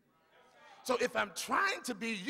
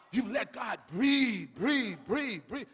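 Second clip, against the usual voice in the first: louder repeated breathe; preacher's cry; 4 dB louder than usual. Acted. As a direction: punch each breathe.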